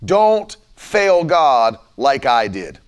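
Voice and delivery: drawn-out, grave "Don't fail God like I did"; slow, solemn retold preaching; slow, heavy warning. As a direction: weigh every word. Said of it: "he began to preach everywhere".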